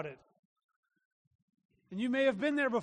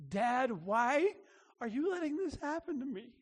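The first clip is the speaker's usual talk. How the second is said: pleading daughter; 3 semitones higher than usual. Retold or imitated. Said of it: "and she's like".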